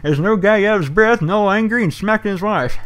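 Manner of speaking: imitating a prank caller's high, loud grandpa voice; hammed-up winded geezer, pitched high and loud; angry old man. Copying a friend's campfire prank calls, cranky old man voice. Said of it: "would do that voice".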